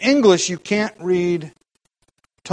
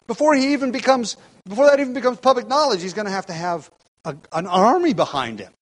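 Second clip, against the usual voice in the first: mildly scoffing, pitched up in disbelief; incredulous; 4 semitones higher than usual. Acted. Pilate dismissing a would-be king's chances, mildly incredulous. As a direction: reason aloud as if the charge is absurd. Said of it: "he's incredulous".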